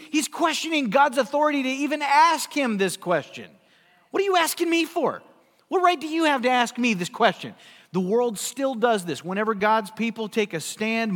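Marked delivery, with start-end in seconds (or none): 4.1-7.5 defiant Cain. Retold or imitated. Cain defying God's question.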